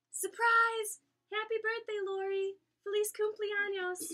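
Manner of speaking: loud, high, joyful yell; surprise shout. A narrator's reading. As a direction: shout it out like a whole party. Crowd yells surprise at party.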